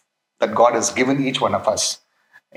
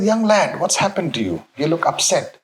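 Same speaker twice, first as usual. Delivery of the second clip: put-on Polish accent; 3 semitones higher than usual. Pope to a young upset guard, light Polish accent. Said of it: "in his Polish accent".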